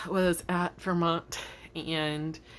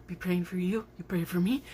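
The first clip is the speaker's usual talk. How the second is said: whispered sign-off. Real, not acted. Vlogger signing off, tender whisper. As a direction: whisper it close to viewers.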